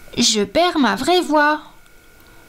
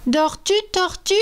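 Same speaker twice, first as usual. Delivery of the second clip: seahorse wake-up call; 7 semitones higher, 4 dB quieter, faster than usual. A narrator's reading. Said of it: "glisse jusqu'à elle et dit".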